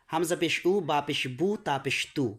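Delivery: উ, বু, তু each with a clear "oo"; teacher's model of short-u endings উ, বু, তু; correct u vowel. Shown as a demonstration. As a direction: recite to a rounded "oo" in বু and তু. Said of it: "এই উচ্চারণগুলো হবে".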